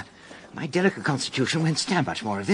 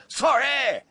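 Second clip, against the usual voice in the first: quick startled yell, higher and louder; 9 semitones higher, 5 dB louder than usual. Retold or imitated. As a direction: blurt out a flustered apology. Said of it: "I yelled".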